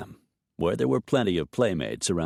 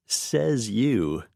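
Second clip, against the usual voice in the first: affectionate; 4 semitones higher than usual. Acted. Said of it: "but with affection".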